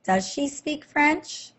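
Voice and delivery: "Does she speak French?" lifted high and slow; slow question. Shown as a demonstration. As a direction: ask it slowly and clearly as a question. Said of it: "make it a question".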